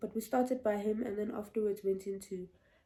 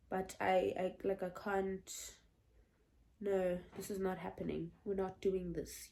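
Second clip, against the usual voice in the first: low, soft, halting protest; hushed retold denial; subdued refusal; 3 semitones lower, 8 dB quieter than usual. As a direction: refuse quietly, as if still taking it in. Retelling her refusal in panic.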